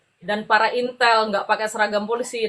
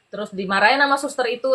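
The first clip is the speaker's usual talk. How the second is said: normal talking voice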